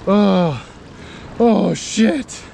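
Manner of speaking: high shocked gasps of surprise; startled cursing. Real, not acted. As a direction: caught off guard, swearing. Capsizing into icy water.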